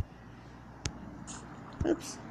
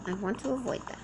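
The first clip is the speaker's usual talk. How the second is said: quieter, flat mutter to oneself; softer repeat; 6 dB quieter than usual. Real, not acted. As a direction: say it again under your breath.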